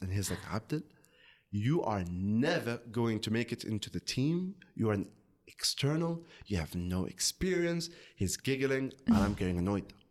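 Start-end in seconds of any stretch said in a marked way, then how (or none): none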